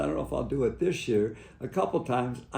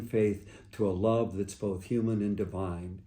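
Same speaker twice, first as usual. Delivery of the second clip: closing prayer. Acted.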